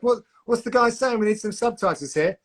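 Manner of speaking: high, puzzled voice of stream viewers; confused viewers voice. Retold or imitated. Host mimics baffled stream viewers asking for subtitles, high puzzled voice. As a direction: play a baffled fan who can't follow him. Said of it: "They're like".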